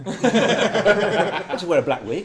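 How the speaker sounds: laughs through it, high, loud and slow; chuckling through the joke; real laughter breaking into the words; laughing. Real, not acted. Joking about playing Patrick.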